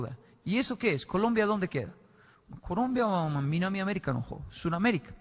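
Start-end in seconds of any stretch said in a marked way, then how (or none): none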